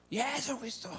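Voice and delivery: high, restrained crowd cry; imitated loud shout. Youths answering how good families are made, imitated shout. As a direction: mimic a big crowd yelling its answer. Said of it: "이렇게 크게 외쳐요".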